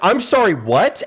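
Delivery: high, startled I'm sorry; disbelief. Retold or imitated. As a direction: caught off guard, asking again. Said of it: "And I was like".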